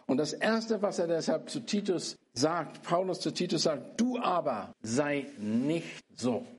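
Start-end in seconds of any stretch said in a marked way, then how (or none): 4.0-6.4 "du" stressed, slow and weighty. Shown as a demonstration. Preacher slowly stressing "du" to Titus. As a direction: lean on "du aber sei nicht so". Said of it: "die Betonung ist auf, er soll nicht so sein".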